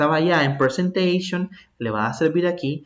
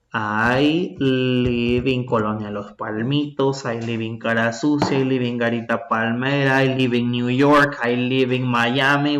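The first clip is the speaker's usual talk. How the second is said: slow examples; 3 semitones lower, slower than usual. Shown as a demonstration. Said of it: "whatever you want to put".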